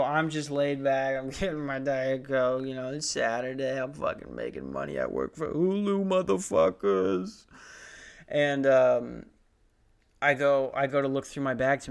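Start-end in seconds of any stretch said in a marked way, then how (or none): 0.0-7.5 put-on laid-back swagger; casual show-off, stretching the last word. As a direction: play at being too cool to care. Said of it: "whole new vibe that I'm gonna give off now".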